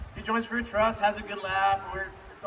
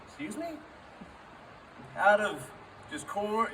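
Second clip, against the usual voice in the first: mock disbelief; 4 semitones higher, slower than usual. Retold reaction to homemade tortilla offer.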